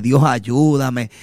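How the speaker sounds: tearful prayer. Retold or imitated. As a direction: plead with God slowly, half-retold. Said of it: "orando y llorando y diciéndole".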